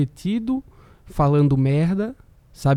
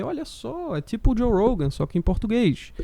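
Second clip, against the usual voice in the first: surprised; 7 semitones higher than usual. Retold or imitated. Retold own surprised reaction.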